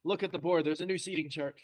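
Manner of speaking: mimed panting, words squeezed out between gasps; out of breath. Retold or imitated. Winded teacher greeting the class after climbing stairs, acted out of breath. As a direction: act winded, puffing through the instructions. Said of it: "I'm so out of breath".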